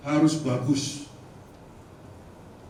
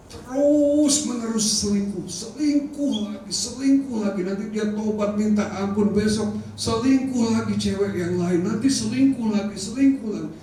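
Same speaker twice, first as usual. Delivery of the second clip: heated retelling; 6 semitones higher than usual. Retold or imitated. Repeated complaint, raised pitch.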